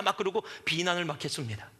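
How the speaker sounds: usual speaking voice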